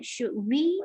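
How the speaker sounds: "Should we" as a question, lifting on "we"; rising question intonation. Shown as a demonstration. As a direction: let "we" swing upward at the end of "Should we". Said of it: "intonasi you berbeda".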